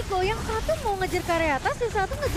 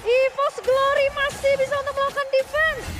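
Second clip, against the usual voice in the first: fighting game announcer; 7 semitones higher, 6 dB louder than usual. Real, not acted. Caster pumps up the defense.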